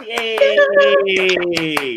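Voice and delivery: cheering yay for the guest; big excited cheer; loud cheer. Real, not acted. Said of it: "See, I told you I'm loud".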